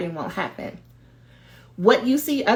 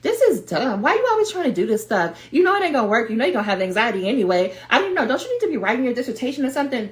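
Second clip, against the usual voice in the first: lightly voiced inner heckler, rising in pitch; a hint of fussy, restless self-doubt; nagging inner voice; 3 semitones higher, faster than usual. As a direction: nag yourself out of sitting still. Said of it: "then that voice is like".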